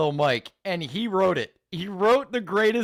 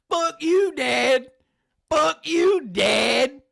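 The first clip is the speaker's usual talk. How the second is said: high, loud hammed-up yell at dad; mock yell; 10 semitones higher, 4 dB louder, much slower than usual. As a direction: scream it like an angry kid rapper, much higher. Streamer mimics rapper yelling at dad.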